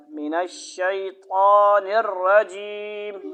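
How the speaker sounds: من الشیطان الرجیم drawn out slowly; slow recitation. Shown as a demonstration. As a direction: recite it slowly so the child can follow. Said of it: "سمجھ آئی بات".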